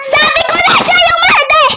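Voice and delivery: high, loud outburst; excited accusation. Real, not acted. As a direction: yell out who the culprit is. Accusing the murderer in game. (pasigaw na pagbibintang)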